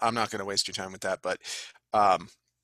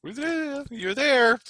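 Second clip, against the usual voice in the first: teasing high voice; slower than usual. Real, not acted.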